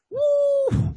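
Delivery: high whooping cheer; excited whoop. Real, not acted. Host whooping about Excalibur. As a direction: whoop it out loud.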